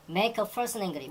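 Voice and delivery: each word drawn out slowly; slow example reading. Shown as a demonstration. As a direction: spell the phrase out slowly for the class. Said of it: "teacher reads key phrase". (천천히 또박또박 읽기)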